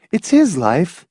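high, scolding wife; chastising. A narrator's reading. Wife rebuking her husband, chastising. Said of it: "she chastised her husband".

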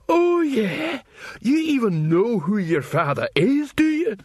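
high, sneering dwarf taunt; dwarf mocking the troll's parentage, high and sneering. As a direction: jeer up at the troll.

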